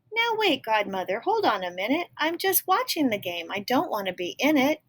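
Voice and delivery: put-on high, protesting girl voice; mildly alarmed young girl; girl objecting. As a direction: stop her with a startled plea. Ellie objects.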